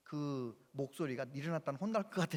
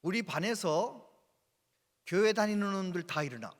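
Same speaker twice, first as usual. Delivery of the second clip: stern teacher ordering students up; teacher's command; 6 dB louder than usual. Retold or imitated. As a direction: bark the order at the class. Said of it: "한 얘기가 이러더래요".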